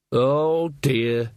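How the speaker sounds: ordinary delivery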